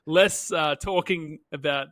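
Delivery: loud mock demand, easing off; hammed-up studio pitch; mock audience demand. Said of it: "they were like".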